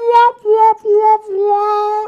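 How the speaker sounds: high, loud mock wop-wop sound effect. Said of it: "if there could be a wop".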